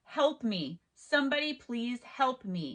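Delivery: ordinary delivery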